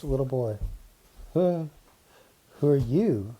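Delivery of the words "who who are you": put-on hesitant boy. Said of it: "the boy asked hesitantly".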